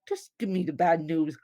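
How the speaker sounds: fast, curt, bracing for the worst; blunt demand. Retold or imitated. Patient to doctor on the phone, blunt and fast. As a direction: rush it out like you can't wait for bad news. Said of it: "I didn't say it like that".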